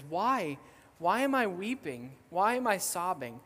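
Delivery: mildly distraught questioning, no tears; bewildered distress. Retold or imitated. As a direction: imitate someone pleading to understand. Retold weeping woman questions her boyfriend.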